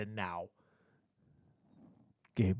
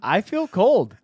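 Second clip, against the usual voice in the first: louder hammed-up I feel cold; mock cold complaint; 7 semitones higher, 10 dB louder, slower than usual. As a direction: ham up feeling cold. Joking the model feels cold.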